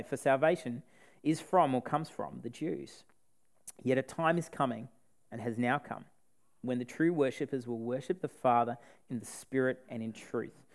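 measured Bible reading voice; scripture reading. Acted. Preacher reading the Samaritan woman story to the congregation, measured and earnest. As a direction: read the passage with care and weight.

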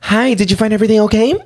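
bright upbeat cashier sales pitch; flat rote cashier. Retold or imitated. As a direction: run the store card pitch. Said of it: "every single time I would be like".

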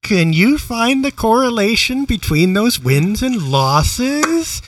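put-on slow, sing-song voice for little kids; overbright kids party host. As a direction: talk down like a cheery children's host. Mock addressing podcast partner as kids.

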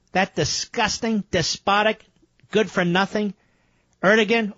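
rising, scornful string of insults; indignant rant. Real, not acted. Ranting at Turkish leader.

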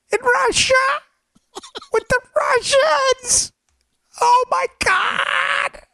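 overly aggressive nerdy detective, high-pitched squeal; Marvin. Acted. Nerdy detective announcing his big case, overexcited. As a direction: climb from eager to shrieking mock triumph. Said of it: "the overly aggressive, nerdy detective".

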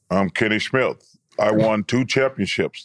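mock New York ballplayer, halting; Kenny Smith. Shown as a demonstration. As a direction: drop low and stumble over the boast. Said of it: "How about Kenny?".

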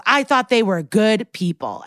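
mild mock yell; retold yell. Witness defends himself on the stand, half-hearted retold yell. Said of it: "And he yells".

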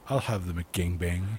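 low, soft seductive purr; breathy femme fatale order, low and hushed; sultry voice. Pretend. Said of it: "Her in a sultry voice asks for".

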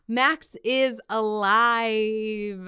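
slow, drawn-out announcement; spring the big reveal slowly; dramatic reveal. Acted. Host teasing listeners with the spoiler, drawn out.

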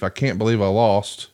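understated mock disbelief; imitated disbelief. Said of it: "convalescing in disbelief".

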